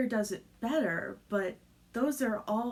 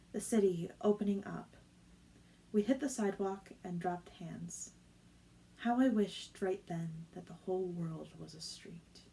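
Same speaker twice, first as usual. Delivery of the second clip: measured literary audiobook read; story narration. A narrator's reading. Reader sharing a favorite book passage with listeners, story narration. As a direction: read it evenly, letting each image land.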